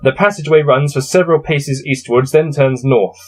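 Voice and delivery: steady gamebook reading voice; story narration. A narrator's reading. Player reading his gamebook to viewers, narrating. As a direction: read the passage out evenly. Reads gamebook text aloud.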